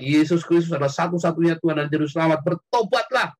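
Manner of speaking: imitated fervent call to repent; retold street preaching. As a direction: recall a teen preaching on the roadside. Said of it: "teriak-teriak".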